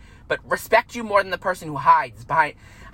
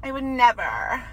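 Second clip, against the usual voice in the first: a slow, higher, sugary fake-sweet denial; fake innocent denial; 5 semitones higher, 3 dB quieter, slower than usual. Mocking a fake friend's sweet denial, slow and higher. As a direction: play the two-faced friend denying it. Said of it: "'Cause they're fake as fuck".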